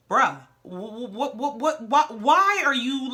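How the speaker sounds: imitating baffled, stuttering disbelief; baffled stammering. Lewis asks Martell what's going on, baffled stammer. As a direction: stumble over the question as if dumbfounded.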